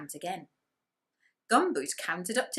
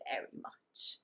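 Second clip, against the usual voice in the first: whispered aside; 10 dB quieter than usual. A narrator's reading. Narrator whispering how much Gumboot loves chocolate.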